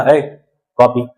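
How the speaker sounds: slow, curt summons with a drawn-out ए; mildly rude order for a copy; rude demand. Shown as a demonstration. Teacher shows how a bare request for a copy sounds rude. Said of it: "थोड़ा सा rude लगेगा".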